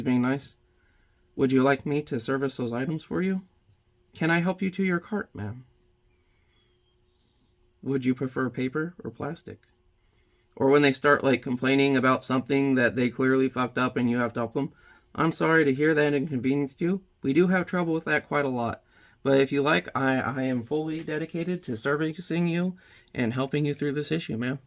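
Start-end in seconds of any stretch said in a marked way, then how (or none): 1.4-9.6 a softer, overly polite counter-clerk voice; polite service voice. Shown as a demonstration. Greeting a customer at the counter in a polite service voice. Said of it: "my service voice". 15.1-24.6 polite service voice. Shown as a demonstration. Greeting a customer at the counter in a polite service voice. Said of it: "my service voice".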